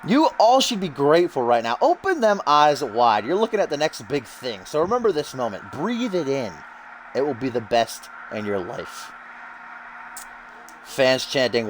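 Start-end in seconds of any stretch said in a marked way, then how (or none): 0.1-9.1 Russell Pontarelli. Acted. Commentator voices the newcomer's promo for listeners, cocky wrestler voice. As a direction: play a self-important wrestler addressing his crowd. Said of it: "Russell says".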